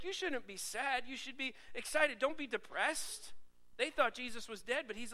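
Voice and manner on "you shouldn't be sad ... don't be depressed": slower, higher, lifting the disciples; upbeat urging. Retold or imitated. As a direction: cheer them up, drawn out. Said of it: "He's like".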